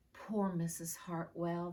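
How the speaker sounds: slow, sorry sigh of pity; sadly. Acted. Children pitying their teacher, said with mild sadness. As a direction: feel sorry for her, slowly. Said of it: "they all said sadly".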